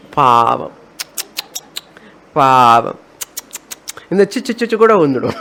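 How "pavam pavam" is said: low, drawn-in murmur of pity. Acted. Teacher voices pity for the foolish sparrow, pitying. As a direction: feel sorry for it, voice dropped low. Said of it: "You are pity of that sparrow".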